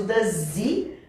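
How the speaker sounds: DOES HE slowly as one "duh-ZEE"; DOES HE linked. Shown as a demonstration. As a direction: keep DOES HE glued, with no H. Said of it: "desgrudar é muito raro".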